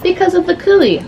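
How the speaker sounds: high, sarcastic sing-song mimicry; mock the cheesy plot twist. Reader mocking a magical fertility twist, high sarcastic voice. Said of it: "Not like".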